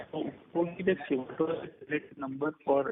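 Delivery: muffled voice, as if behind a hand. Real, not acted. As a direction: speak through a covered mouth. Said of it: "you're sounding muffled".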